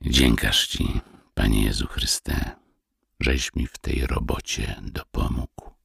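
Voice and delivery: deep, measured words of thanks to God; solemn prayer. A narrator's reading. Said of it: "rzekł silnym głosem".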